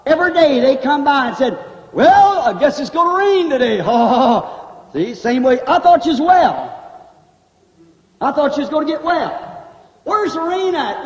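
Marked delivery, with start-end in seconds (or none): 1.9-11.1 mocking scoffer.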